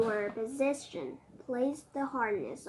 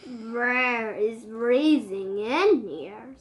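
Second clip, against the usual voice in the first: teeth chattering; 7 dB louder, slower than usual. Acted. Cold reindeer speaks, chattering.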